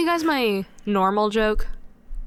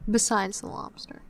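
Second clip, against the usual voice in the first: funny voice; 5 dB quieter than usual. Acted. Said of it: "talking in that voice".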